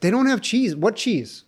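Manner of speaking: fake Russian accent. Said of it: "That is not a Russian accent".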